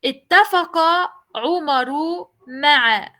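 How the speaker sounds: Ittafaqa Umaru ma'a read slowly, word by word; slow careful reading. Shown as a demonstration. Teacher reading to students: slow, deliberate. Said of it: "cómo voy a pronunciar la palabra".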